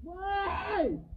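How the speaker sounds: real cry of alarm. Real, not acted. Stuck head, crying out.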